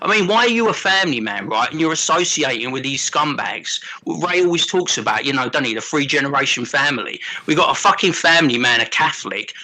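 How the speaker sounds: lightly voiced South London geezer ranting; a hint of a London lad mouthing off, bruv; mild South London tirade at a mate. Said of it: "that was a free South London James rant".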